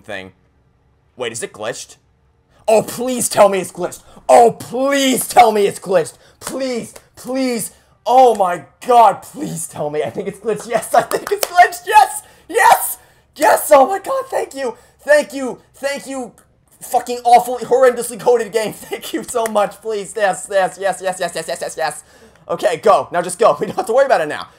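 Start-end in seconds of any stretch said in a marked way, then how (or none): 2.7-14.2 high, rising pleas turning to joy; beg, then explode into relief; desperate pleading. Real, not acted. 14.3-22.0 giddy relief. Real, not acted. Relieved gratitude.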